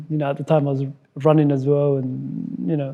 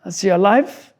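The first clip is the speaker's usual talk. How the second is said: higher, louder hopeful question; excited question; 4 semitones higher, 4 dB louder than usual. Retold or imitated. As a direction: ask with rising excitement. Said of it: "got really excited".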